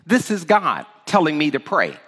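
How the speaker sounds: firm, emphatic declaration. Shown as a demonstration. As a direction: state it with firm conviction. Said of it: "You can say emphatically".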